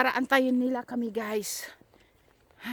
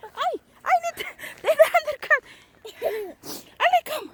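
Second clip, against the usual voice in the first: calling out; 13 semitones higher than usual. Real, not acted. Calling kids from the path.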